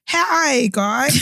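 exaggerated read-out of a greeting; odd drawn-out greeting. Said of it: "Why is it like that?".

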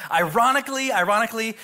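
high, loud burst of amusement; lively amused stress; emphatic ironically. Real, not acted. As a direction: pop the word up with playful irony. Emphatic aside about series name.

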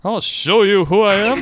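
rising, mock-menacing reveal; hint of a mad villain; unhinged menace. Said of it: "Maniacal laugh".

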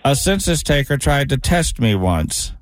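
lightly voiced cannibal courting his prey; measured, unhurried menace; Hannibal Lecter. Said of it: "give you the other line".

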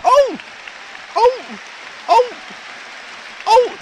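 high loud barking sea lion honks; sea lion impression. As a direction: honk like a sea lion, full volume. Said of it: "Do your best sea lion impression".

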